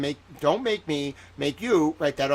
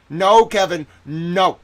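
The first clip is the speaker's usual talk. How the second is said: mock stern scolding; 3 semitones higher, 8 dB louder, slower than usual. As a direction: scold him like a playful teacher.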